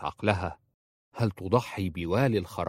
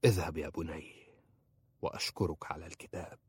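softer, lower mutter fading away; a tired old judge muttering dismissal; 4 semitones lower, 8 dB quieter than usual. A narrator's reading. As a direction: mumble it to yourself, barely there. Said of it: "تمتم القاضي".

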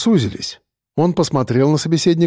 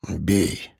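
low, soft and calm; спокойно, низко и тихо; 8 semitones lower, 7 dB quieter than usual. A narrator's reading. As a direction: say it with no fear. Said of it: "сказал Сартылай спокойно".

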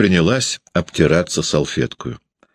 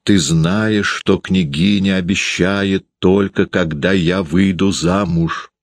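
slow, patient persuading; wife slowly talking her husband round; persuasive voice; 3 semitones higher, slower than usual. Acted. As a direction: lay it out slowly to win him over. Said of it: "убеждающим голосом".

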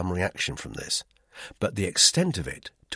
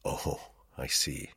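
acid; 6 semitones lower, 6 dB quieter, slower than usual. A narrator's reading. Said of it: "He smiled acidly".

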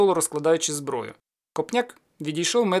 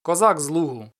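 cossack call; 4 dB louder than usual. Acted. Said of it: "загукав за січовим звичаєм".

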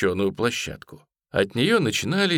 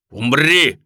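fierce; 5 semitones higher, 8 dB louder than usual. A narrator's reading. Executioner's death threat.

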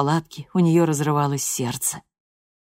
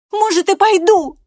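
much higher and louder, near shouting; furious threat; 9 dB louder than usual. A narrator's reading. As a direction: threaten her mother at full pitch. Loredo's defiant answer.

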